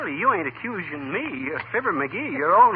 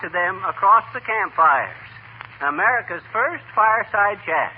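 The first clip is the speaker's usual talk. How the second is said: orating; 2 semitones higher than usual. Acted. McGee rehearsing a pompous speech.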